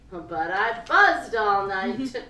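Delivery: loud and slow, savouring it; slow emphatic. A narrator's reading. Narrator relishing her sleepless night, loud and slow. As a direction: drag out the buzz with relish.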